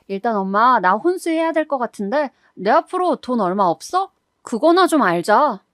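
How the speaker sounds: mildly defiant, annoyed daughter; defiant retort. Acted. Daughter justifying hiding her mother from in-laws, defiant. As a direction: argue back as if nothing is odd. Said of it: "그게 뭐가 이상하냐는 투로 반박을 하더군요".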